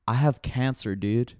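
lightly put-on dopey Canadian accent; deadpan a hint of bad Canadian accent; dumb Canadian voice. Spinner's dramatic reveal to his friend, mild dumb Canadian accent. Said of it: "he says it in, like, this fucking dumbass Canadian voice".

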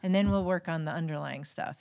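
light Boston accent imitating dad; a hint of dad's Boston accent. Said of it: "my dad has a Boston accent".

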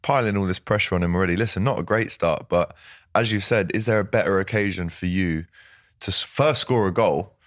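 ordinary talk

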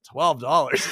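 loud, exaggerated "Twelve dollars"; incredulous outburst. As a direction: re-enact your own appalled reaction to "Twelve dollars". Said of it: "I said it like that".

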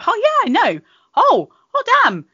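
hammed-up vain reply to a compliment; mock smugness. Woman answering a compliment on her outfit, mock smug. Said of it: "you turn around and go".

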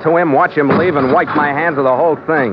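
world-weary narrator; noir narration. A narrator's reading. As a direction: tell it like a hard-boiled captain looking back. Narrator voiceover over music.

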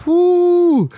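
high hyped-up whoop; excited whoo. Real, not acted. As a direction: get hyped by the beat. Hyped reacting to a beat.

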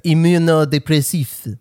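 Immunodepressif said the French way, ee-mu-no-day-pre-SEEF; French accent. Shown as a demonstration. Telling the nurse the word in French accent. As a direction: Immunodepressif with French vowels and final stress. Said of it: "with a French accent".

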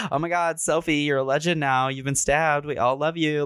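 mock her, sweet and fake; mocking Ryler. Friend stealing the scene, mock gushing voice. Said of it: "tries to steal the scene and is all like".

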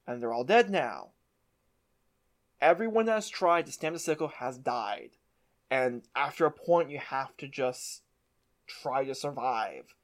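understated defeat, sinking and slowing at the end. Retold or imitated. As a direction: voice a weary old survivor giving up. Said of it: "she's so defeated".

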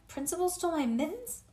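high, rising incredulous question; shocked. A narrator's reading. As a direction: climb in pitch with disbelief. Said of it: "I said, very shocked".

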